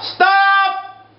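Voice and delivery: high, sharp cry of disbelief; exasperated shout. Real, not acted. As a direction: yell it like you can't take it. Ranting at letter writer.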